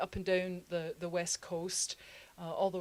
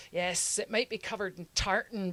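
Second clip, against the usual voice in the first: indignant resident; 10 dB louder than usual. Retold or imitated. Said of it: "Scottish people in there would be like".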